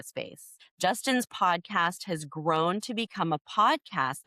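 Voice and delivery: measured podcast-host introduction; introducing a guest. Real, not acted. Host reads the guest's biography to listeners, formal introduction. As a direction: read out a speaker bio.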